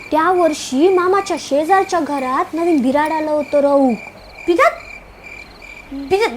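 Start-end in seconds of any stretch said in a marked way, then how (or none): 4.5-4.7 puzzled repeat. Acted. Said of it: "म्हणजे काय ग?".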